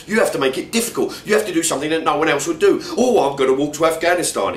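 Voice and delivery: put-on high, loud London-accented ranting; incredulous rant. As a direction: pile on the scorn, mate. Comic friend rants at narrator.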